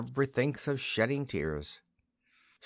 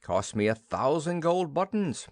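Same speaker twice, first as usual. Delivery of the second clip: boastful king; 6 semitones higher than usual. A narrator's reading. King boasting about the feast.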